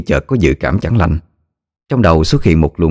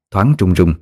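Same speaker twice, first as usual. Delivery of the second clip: usual speaking voice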